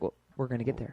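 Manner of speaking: softly patient mock instructor; imitated calm teacher. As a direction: gently put off an eager student, imitated. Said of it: "he was very calm".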